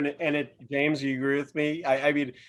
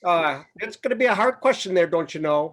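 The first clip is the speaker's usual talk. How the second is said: put-on Minnesotan accent. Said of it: "your best Minnesotan accent".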